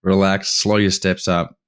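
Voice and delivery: slow, drawn-out mock telling-off; exasperated mentor. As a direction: imitate a guide reining in an eager novice. Guide reining in excited novice.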